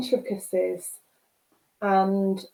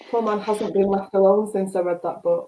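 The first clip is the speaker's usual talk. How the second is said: laughing. Real, not acted.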